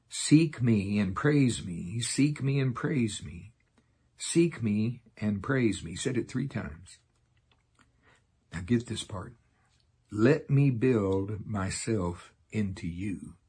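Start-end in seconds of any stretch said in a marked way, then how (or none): 0.1-5.9 slow prophetic declaration. Acted. Delivering the Lord's words. 10.1-13.4 slow prophetic declaration. Acted. Delivering the Lord's words.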